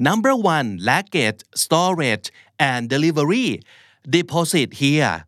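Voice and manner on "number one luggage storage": "Number" stressed, slow; model reading. Shown as a demonstration. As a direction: hit "Number" first, read slowly. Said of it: "อ่านว่า number one นะครับ". (เน้นคำว่า "Number")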